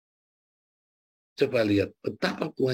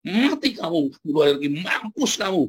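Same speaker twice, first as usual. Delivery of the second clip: a raised, cursing prophet's rant; mock angry preaching; 3 semitones higher than usual. Preacher imitates Yunus cursing Nineveh, mock angry rant. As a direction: spit out the curse like a furious prophet. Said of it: "Kamu caci maki sama Yunus".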